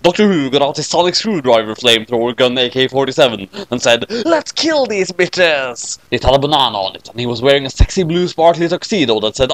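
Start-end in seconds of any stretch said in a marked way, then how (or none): 4.2-6.0 drawn-out battle cry. A narrator's reading. Battle cry read slowly.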